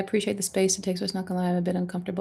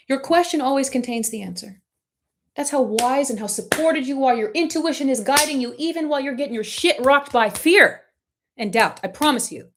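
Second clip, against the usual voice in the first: higher, fervent pep-talk shout on her side; passionate yelling; 5 semitones higher than usual. Real, not acted. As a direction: yell it out because you're on their side. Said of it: "And I'm yelling because I'm on your side".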